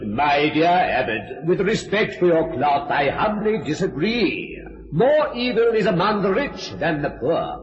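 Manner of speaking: slow, measured stage declamation; politely disagree like a courtly gentleman. Acted. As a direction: Sir Peter answering the Abbot, slow and courtly. Actor plays Sir Peter on stage.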